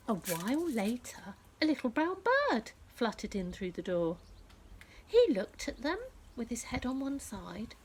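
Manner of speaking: gentle storybook narration; reading to children. A narrator's reading.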